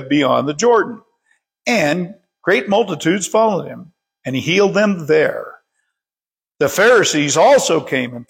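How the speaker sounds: measured, deliberate read-aloud with emphasised words; scripture reading. Real, not acted. Preacher reads the parable to the congregation, measured scripture reading. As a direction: read the passage out clearly, phrase by phrase.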